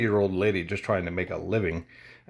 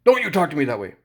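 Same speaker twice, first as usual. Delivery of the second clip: higher, louder mock scolding; retold angry customer; 10 semitones higher, 3 dB louder, faster than usual. Mimicking the customer telling him off, raised and higher. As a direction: snap back like the offended customer. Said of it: "she just read me".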